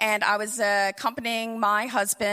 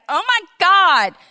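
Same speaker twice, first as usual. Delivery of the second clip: alarmed daughter; 7 semitones higher, 7 dB louder than usual. Retold or imitated. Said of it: "she was like".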